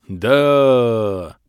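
loud, drawn-out yell; joyful battle cry. A narrator's reading. Whole clan answering their leader, joyful yell. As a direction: yell it as a rallying roar. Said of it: "радостный многоголосый вопль".

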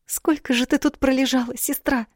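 a princess wailing over her sister; lamenting girl. A narrator's reading. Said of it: "запричитала Талиция".

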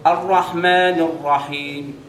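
slow Quran recitation, الرحيم ending in a barely heard vowel. Shown as a demonstration. Teacher repeating slowly for students to hear. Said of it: "سمعت حاجه بالتالي يعني؟".

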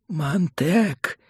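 high-pitched urgent call; piercing warning. A narrator's reading. Mentor calls Montag through the earpiece, piercingly. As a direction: pierce his ear with the name. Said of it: "Голос Фабера ввинчивался Монтегу в ухо".

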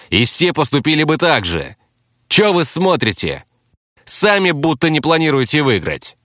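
high-pitched, agitated captive; cornered captive. Acted. Cornered captive admits others will die, agitated.

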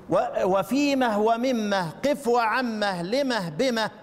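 slow chanted verse, each word drawn out; slow verse recitation. Shown as a demonstration. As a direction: recite the verse slowly for students. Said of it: "كم كلمة؟". (تلاوة بطيئة للبيت مع مد الكلمات)

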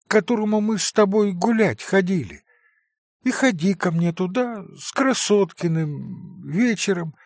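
put-on a boy comforting his father; dying child. Narrator voices dying child.

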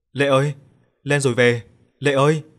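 loud call across the river; shouting a name. Acted. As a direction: yell for his sister to come up. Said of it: "Thằng Lành hét lớn".

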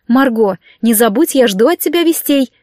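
plain reading voice

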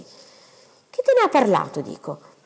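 a stern doctor demanding the truth; sudden severity. Acted. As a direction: press her hard for an answer. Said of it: "l'improvvisa severità dei modi e della voce".

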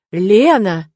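loud shocked cry of her name; indignant exclaim. A narrator's reading. Tirk exclaiming at Lena in indignation. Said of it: "возмущённо воскликнул он".

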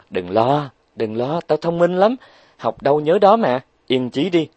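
boastful Huệ Linh. Acted.

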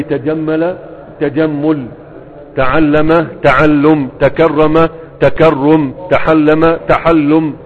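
each pattern spelled out slowly; slow drill. Shown as a demonstration. Teacher to students, drilling verb patterns, slow and deliberate. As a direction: stretch every syllable for the class.

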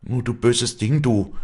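high, loud, indignant cry; passionate outcry. A narrator's reading. Afra turning on Wally, passionate outcry. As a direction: fling the accusation out loud and high. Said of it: "rief Afra leidenschaftlich".

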